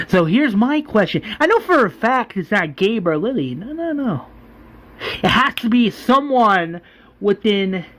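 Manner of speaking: accusing rant. Retold or imitated. Governor accuses his men of betrayal.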